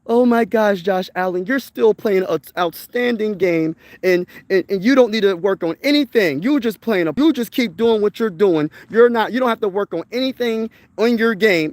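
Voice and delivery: mock babying praise. Fan babying a struggling quarterback, mock gushing. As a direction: coo over Josh Allen like a doting fan. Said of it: "people wasn't babying him and saying".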